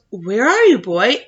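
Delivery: put-on loud call searching for the boy; father shouting. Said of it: "And he shouts".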